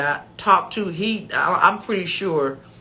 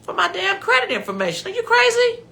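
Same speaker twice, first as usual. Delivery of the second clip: rising to a high outraged squeak; rising mock outrage; indignant; 4 semitones higher than usual. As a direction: scold the scammer in disbelief. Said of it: "And I thought".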